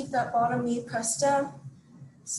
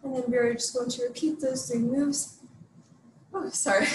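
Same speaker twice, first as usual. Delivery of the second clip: out of breath. Real, not acted. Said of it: "really catching my breath here".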